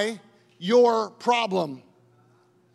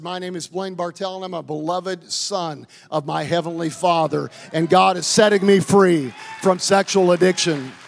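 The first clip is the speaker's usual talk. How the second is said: new bold check-in; 4 semitones lower, 3 dB louder than usual. Retold or imitated. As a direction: claim your new name, rising to a shout. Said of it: "I got a new check-in for you tonight".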